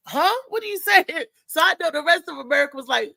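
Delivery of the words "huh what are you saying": laughing mock confusion. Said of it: "Trump was even like".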